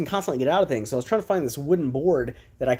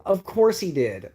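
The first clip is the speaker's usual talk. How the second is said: exasperated mother; 6 semitones higher than usual. Retold or imitated. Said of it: "It was like".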